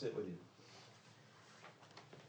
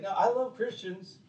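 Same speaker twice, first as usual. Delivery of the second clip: mock lukewarm Christian; 3 semitones higher, 4 dB louder than usual. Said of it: "It's like".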